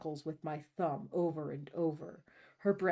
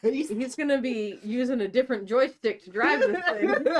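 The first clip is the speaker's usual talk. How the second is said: laughing; 6 semitones higher, 7 dB louder than usual. Real, not acted. Joke through laughter.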